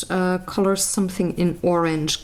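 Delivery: ordinary talk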